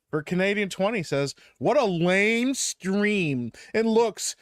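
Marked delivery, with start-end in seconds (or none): 1.6-4.3 mocking, drawn-out superchat read; sarcastic reading. Shown as a demonstration. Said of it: "I read it sarcastically".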